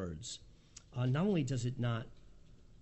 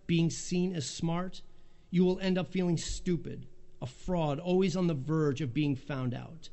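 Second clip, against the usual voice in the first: reading a quote aloud. Real, not acted. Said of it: "I'll just read you".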